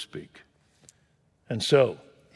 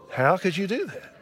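laughing disbelief; 8 semitones higher, 3 dB louder than usual. Retold or imitated.

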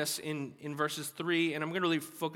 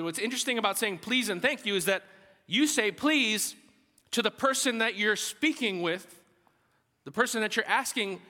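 higher, punchy preacher's delivery; emphatic preaching; 6 semitones higher, 5 dB louder than usual. Acted. Preacher explaining please and thank you, emphatic. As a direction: drive the point home to the congregation.

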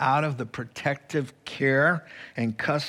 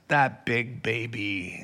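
indignant blurt; 2 semitones lower than usual. Retold or imitated. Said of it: "he looks up and blurts out".

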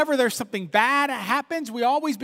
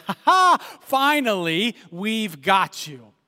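gloating villain laugh; slower than usual. Retold or imitated. Preacher voicing fox and bear gloating over rabbit, slow and triumphant. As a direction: crow over the trapped prey.

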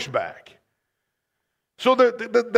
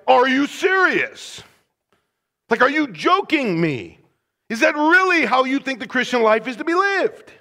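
incredulous challenge; 2 semitones higher than usual. Shown as a demonstration. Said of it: "but saying something like".

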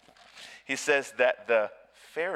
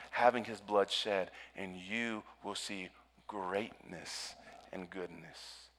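hushed sermon; 4 semitones lower, 5 dB quieter than usual. Acted. Quiet reflective appeal after climax.

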